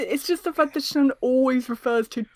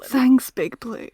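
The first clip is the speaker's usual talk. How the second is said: slow sultry Rouge line; much slower than usual. Shown as a demonstration. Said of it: "I didn't like how that sounded".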